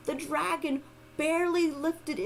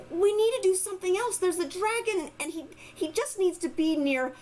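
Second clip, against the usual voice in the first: put-on urgent little girl voice; 4 semitones higher, 3 dB louder than usual. Girl urging villagers.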